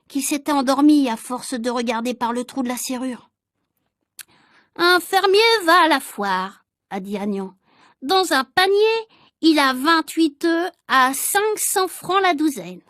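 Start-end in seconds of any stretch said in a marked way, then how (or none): 4.8-6.6 prim pupil reciting. Acted. Agnan reciting arithmetic problem. 8.0-12.8 prim pupil reciting. Acted. Agnan reciting arithmetic problem.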